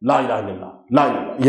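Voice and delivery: لا الہ الا اللہ mumbled fast and low; mocking a rushed recitation. Shown as a demonstration. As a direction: imitate a careless mumbled chant. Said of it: "کیسے پڑھتے ہیں".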